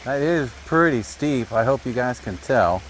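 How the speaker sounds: low-quality camera mic audio; thin, muffled recording sound; low sample rate. Real, not acted. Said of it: "Sorry if the audio is low quality".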